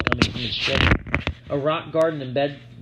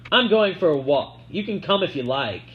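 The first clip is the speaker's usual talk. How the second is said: put-on girl character voice; 5 semitones higher, 4 dB louder than usual. A narrator's reading. Sissy voiced higher.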